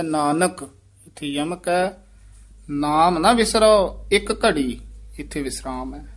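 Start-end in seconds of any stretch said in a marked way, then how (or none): 0.0-4.8 brief stop after Nanak, then ਨਾਮ ਨਾ ਵਿਸਰੋ ਇੱਕ ਘੜੀ in one phrase; pause after Nanak. Shown as a demonstration. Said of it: "ਵਿਸਰਾਮ ਧਿਆਨ ਨਾਲ ਲਾਉਣਾ ਹੈ".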